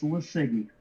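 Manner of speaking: Lesiggy said as luh-SIG-ee; demonstrated pronunciation. Shown as a demonstration. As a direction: say Lesiggy plainly, stress on the SIG. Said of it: "you can pronounce it".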